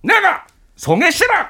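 rough, high-pitched tough-guy rant; gruff shouting actor. Acted. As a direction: bark it out like a gruff veteran actor. Gruff actor voice, Choi Min-sik parody.

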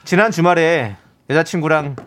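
smooth, even letter-reading voice; gentle reading. Pretend. Host reads a listener's string of misfortunes, gentle even delivery. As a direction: read the misfortunes out gently, unhurried. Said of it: "부드럽게 읽어드릴게요".

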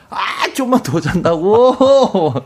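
slow, high mock shout; half-laughing grumpy retort; mock grumpy yell. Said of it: "막 소리, 소리 지르고".

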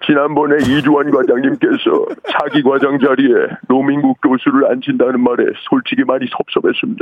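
measured, formal drama-actor delivery; Kim Myung-min. Acted. Caller repeating a drama doctor impression as encore, measured grievance. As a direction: impersonate a drama actor's aggrieved formal speech. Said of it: "김명민 큐".

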